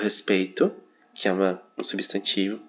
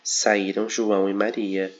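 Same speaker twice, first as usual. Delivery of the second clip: slow, with "Saíram" up front and JOÃO stressed; careful demo of "Saíram" before "João"; slow example read; slower than usual. Shown as a demonstration. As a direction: read out "Saíram João e Maria" slowly, verb first. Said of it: "depois do verbo".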